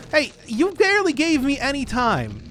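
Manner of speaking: high, loud outburst at the game; indignant protest. Real, not acted. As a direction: protest loudly, pitch shooting up. Protests at the game rushing him.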